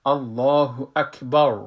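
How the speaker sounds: الله اکبر drawn out slowly with a full heavy ending; full mouth. Shown as a demonstration. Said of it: "پر گرفتم".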